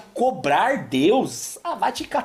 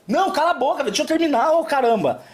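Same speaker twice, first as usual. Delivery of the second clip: mock annoyed; 6 semitones higher, faster than usual. Telling the interrupter off, exasperated. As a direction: shut the interrupter up.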